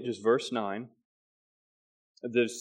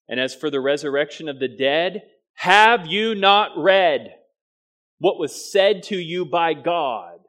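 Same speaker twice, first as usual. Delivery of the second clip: "have you not read" louder, higher and slow; pointed challenge; 4 semitones higher, 7 dB louder than usual. Acted. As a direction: press the question like an accusation. Jesus challenges the Sadducees.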